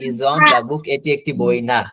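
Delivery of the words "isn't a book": drawn out word by word; stretched classroom demonstration; very slow model sentence. Shown as a demonstration. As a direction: spell it out slowly for learners. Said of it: "teacher models contracted sentence".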